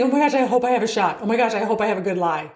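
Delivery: fast nervous mock hoping, half laughing; mock anxious hoping. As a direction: play the worried golfer racing to the ball. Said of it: "If you're sitting there saying".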